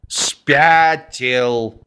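a touch of tragic despair. Acted. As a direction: deliver it like a tragedy. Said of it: "трагическим голосом".

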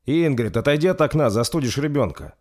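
high, loud call across room. Acted. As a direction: call her away from the window. King calls to the queen.

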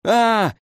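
short high-pitched mock yell; sudden high cry, not full volume. A narrator's reading. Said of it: "заорал вдруг фон Бюхель". (короткий высокий крик, вполсилы)

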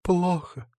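high, whimpering fake sob; theatrical high whimper. A narrator's reading. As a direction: sob it like a bad actress. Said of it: "всхлипывает эта актриса".

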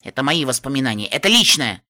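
firm, stamping refusal; angry. Acted. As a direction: insist hotly on мои. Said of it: "топнула я".

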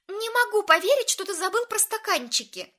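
high, loud reproach; reproachful. A narrator's reading. Lauren reproaches Ambrose for forgetting the cups. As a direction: scold him for forgetting. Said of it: "упрекнула Лорен Эмброуза".

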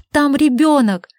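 high urgent cry; urgent shout. Acted. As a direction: cry out in alarm. She insists there's a child. (отчаянный крик)

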